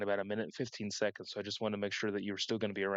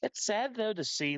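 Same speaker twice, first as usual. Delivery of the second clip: voice crack; 11 semitones higher than usual. Real, not acted. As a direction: voice cracks up high on sad. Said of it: "Wow, terrible voice crack there".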